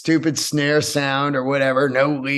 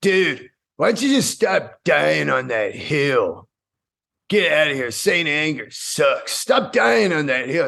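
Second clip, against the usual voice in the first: shitty dude's voice; 2 semitones lower than usual. Retold or imitated. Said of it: "shitty dude's voice".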